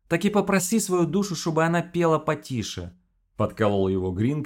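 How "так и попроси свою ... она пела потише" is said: teasing, higher mock Odessa accent. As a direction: imitate a friend's Odessa accent. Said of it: "копируя одесский говор философа".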